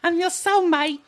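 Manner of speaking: mock swooning girl. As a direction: squeal it like a smitten girl. Mimicking a girl swooning over accent.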